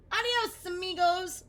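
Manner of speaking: very high, loud "Adios, amigos"; joyful farewell. Acted. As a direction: Oscar happily saying goodbye to the moths. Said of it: "said Oscar".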